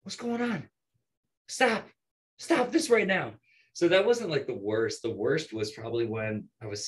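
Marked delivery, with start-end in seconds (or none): 0.0-3.3 high, squeaky retold protest; pitched-up mock command; mock scolding. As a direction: put on a high voice to demand they stop. Breaking up a bar fight.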